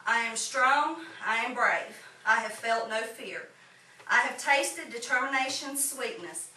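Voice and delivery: measured poetry reading with pauses between lines; poem recitation. Acted. Poet shares own poem with fellow writers, measured recitation. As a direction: recite it line by line in an even cadence.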